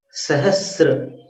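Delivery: सहस्र said slowly as sa-has-ra, no t sound; slow correct sahasra. Shown as a demonstration. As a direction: drag out सहस्र with no extra t. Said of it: "सहस्त्र नहीं है".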